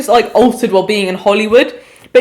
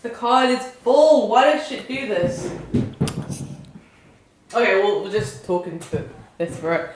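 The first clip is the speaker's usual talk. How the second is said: quiet; 4 semitones lower, 11 dB quieter, slower than usual. Real, not acted. Recording card full, talking low.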